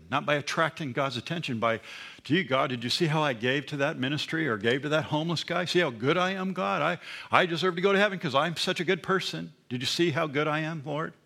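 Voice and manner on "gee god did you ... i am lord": lightly voiced smug do-gooder pleading with God; a hint of a smug, needy show-off; mock self-righteous boasting. Mocking a self-righteous churchgoer.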